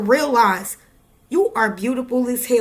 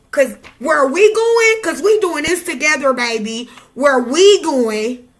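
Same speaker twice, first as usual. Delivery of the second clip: hyped rallying call; 4 dB louder than usual. Real, not acted.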